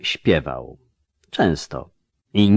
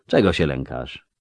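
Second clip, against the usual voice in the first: low, mild question; quiet, almost gentle; 5 semitones lower than usual. A narrator's reading. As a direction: ask gently, voice lowered. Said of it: "głosem cichym i prawie łagodnym".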